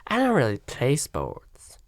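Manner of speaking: mock Southern woman accent; Dylan Mulvaney. Host mimicking a guest's reply, Southern woman accent. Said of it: "a Southern woman accent".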